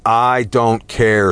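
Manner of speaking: slow, menacing wolf snarl. Acted. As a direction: growl it out slowly. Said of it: "snarled the wolf".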